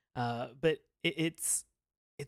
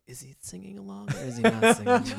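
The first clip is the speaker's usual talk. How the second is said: higher, louder, laughing as she asks; laughing puzzled question; 7 semitones higher, 5 dB louder, faster than usual. Retold or imitated. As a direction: giggle through a baffled question. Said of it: "gesturing in a way that you're just like".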